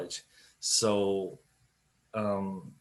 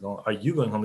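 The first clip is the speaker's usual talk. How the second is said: accusing tone. Shown as a demonstration. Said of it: "it sounds more accusative".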